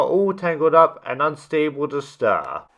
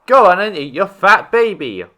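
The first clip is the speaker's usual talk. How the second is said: impatient demand; 4 semitones higher, 6 dB louder than usual. A narrator's reading. Lion demands baby eaten.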